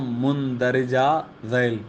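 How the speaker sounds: مندرجہ ذیل slowly, as "mundarija zail"; original pronunciation. Shown as a demonstration. Teacher saying it properly though pupils laugh, original pronunciation. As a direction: sound out مندرجہ ذیل with u first and i after r. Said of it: "تو میں کہتا ہوں".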